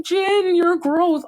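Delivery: high playful teasing; mock-disgusted fond tease. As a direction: tease him fondly.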